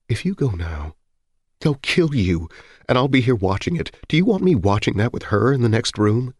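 high, distraught plea through tears; acted tearful wife. A narrator's reading. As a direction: beg him, barely holding together. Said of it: "hardly coherent through her tears".

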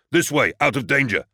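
urgent rescuer's shout; calling out. A narrator's reading. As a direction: yell to clear the way. Marine calling out in chaos.

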